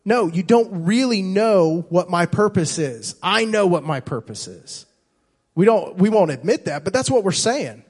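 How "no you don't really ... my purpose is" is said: a bit higher and louder, brushing God off; mock-defiant voice telling God he's wrong; arrogant retort. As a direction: say it like you know better. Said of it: "in our arrogant mindset, want to tell God".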